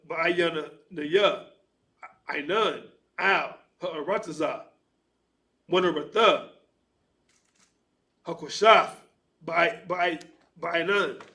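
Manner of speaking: slow, deliberate recitation of Hebrew verses; scripture reading. Acted. Reader recites Genesis in Hebrew to class, deliberate recitation. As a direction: sound out each ancient word with care.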